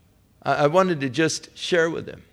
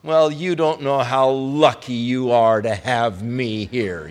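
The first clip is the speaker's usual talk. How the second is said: pompous; 3 dB louder than usual. Retold or imitated. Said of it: "just as pompous as could be".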